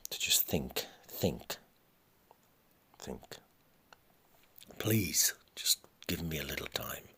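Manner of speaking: mother asks son for time alone; fading whisper. Acted. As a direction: let each word fade as she begs for time.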